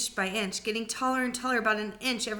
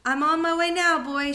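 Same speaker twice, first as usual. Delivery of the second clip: higher, louder shout downward; calling down; 7 semitones higher, 7 dB louder than usual. Acted. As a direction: call down to the boy from far above. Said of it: "she called down to George".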